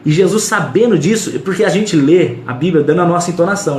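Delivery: ordinary delivery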